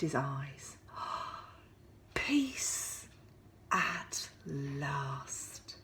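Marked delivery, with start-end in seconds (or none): 2.1-5.8 soft relieved whisper; whispered to himself. Acted. Mister Bear finally in bed, relieved whisper. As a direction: breathe it out in relief. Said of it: "he said to himself".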